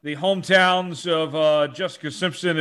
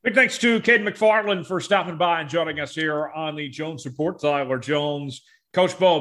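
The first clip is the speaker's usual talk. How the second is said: ad read; 4 dB quieter than usual. Acted. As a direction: lightly read sponsor plug. Sponsor read.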